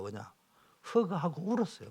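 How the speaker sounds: ordinary talk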